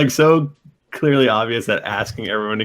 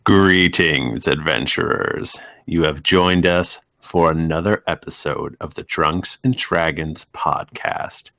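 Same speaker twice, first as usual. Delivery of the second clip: dungeon master intro; 3 semitones lower than usual. Acted. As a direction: welcome the adventurers with grandeur. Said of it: "you were doing so well".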